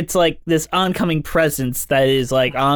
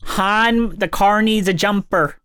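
put-on Minnesotan accent; 4 semitones higher, slower than usual. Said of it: "My Newfoundland accent ... turns into Minnesotan".

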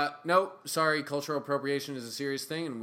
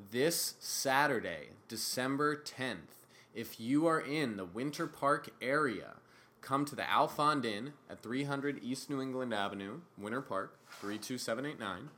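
shameless plug. Real, not acted. Plugging a Christmas show to podcast listeners, deliberate announcer style. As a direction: pitch it like an ad read, item by item. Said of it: "Let's do my shameless plug".

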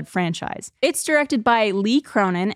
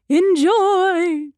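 high eerie spooky sign-off; 9 semitones higher, 3 dB louder than usual. Shown as a demonstration. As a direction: say it like a haunted house host. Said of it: "That was my spooky voice".

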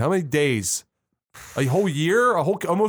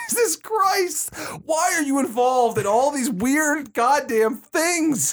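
exasperated shout; 8 semitones higher, slower than usual. Real, not acted. Exasperated outburst after laugh.

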